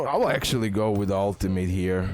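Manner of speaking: ordinary talk, nothing marked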